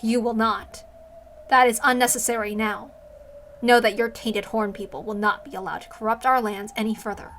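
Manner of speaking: firm, cold refusal; commanding goddess. Acted. The goddess refuses the Horn People's offer, cold and commanding. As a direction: shut her down like a ruler. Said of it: "I need to think of a voice for her".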